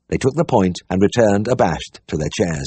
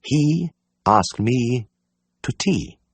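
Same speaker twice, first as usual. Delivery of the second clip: slow, high, every word separate; spelled out carefully; 4 semitones higher, much slower than usual. A narrator's reading. Diana correcting the vet, spelling the words out carefully. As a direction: spell it out as if to a fool. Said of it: "spelling the words out carefully".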